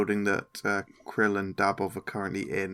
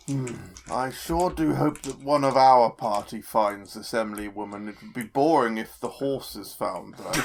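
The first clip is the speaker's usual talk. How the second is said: musing. Acted. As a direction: think aloud in character, unhurried at first. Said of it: "Quinch muses to Gregomel".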